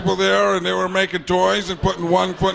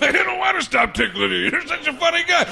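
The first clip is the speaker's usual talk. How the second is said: teasing voice; 8 semitones higher than usual. Retold or imitated. Playful teasing character.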